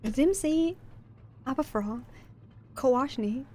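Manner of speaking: made-up Sims gibberish; fake Simlish. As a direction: babble like a Sims character. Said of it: "das klang sehr, sehr nach Simlish".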